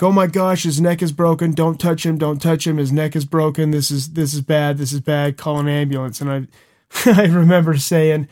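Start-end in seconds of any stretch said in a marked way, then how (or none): 0.0-6.2 imitating panicked friends. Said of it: "they started freaking out".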